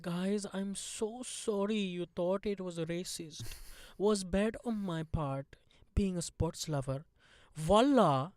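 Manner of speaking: slow put-on Indian accent; drawn-out imitation apology in an Indian accent; mock apology. Reading out the actress's apology, put-on Indian accent. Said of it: "then posted an apology going".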